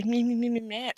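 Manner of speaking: mock high voice.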